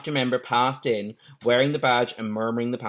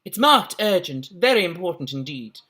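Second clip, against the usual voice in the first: put-on posh girl voice; 5 semitones higher, 3 dB louder than usual. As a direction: draw it out like a posh schoolgirl. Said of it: "She's gotten posher as well".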